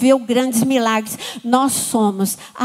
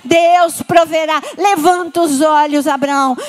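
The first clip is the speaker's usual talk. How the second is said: voice from heaven. Acted. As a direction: halt him with authority. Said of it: "tem uma voz do céu".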